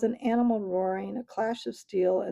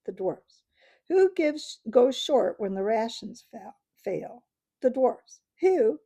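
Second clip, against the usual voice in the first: louder and higher, building toward a yell; rising to a scream; 3 semitones higher, 5 dB louder than usual. Acted. Dwarf rants at the council, building to a loud yell. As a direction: build from angry to shouting. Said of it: "whose voice had now risen to a scream".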